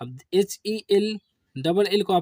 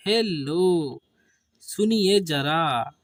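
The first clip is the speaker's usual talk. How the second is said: calling out hello; much slower than usual. Shown as a demonstration. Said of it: "बोलते नहीं हेलो".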